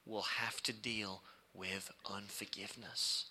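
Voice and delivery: hushed unvoiced whisper. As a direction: lean in and whisper the warning. Preacher drops to hushed warning.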